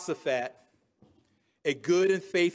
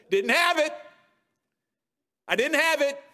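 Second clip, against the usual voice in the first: higher, through a laugh; 6 semitones higher than usual. Real, not acted. Preacher laughing at his own weakness, amused. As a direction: own up with a chuckle. Laughing confession about himself.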